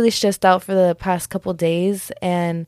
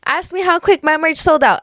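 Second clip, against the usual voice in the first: high-pitched, showy brag; mock-boastful, pitched up; playfully cocky; 9 semitones higher than usual. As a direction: brag like you're daring them to ask. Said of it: "not Des getting cocky".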